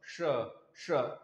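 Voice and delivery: श with the tongue curled back; retroflex sha. Shown as a demonstration. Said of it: "देखिए बोलिए श". (मूर्धन्य श का उच्चारण)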